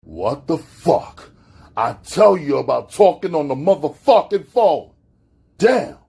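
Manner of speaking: mock her, climbing in scorn; sarcastic. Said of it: "he asked sarcastically".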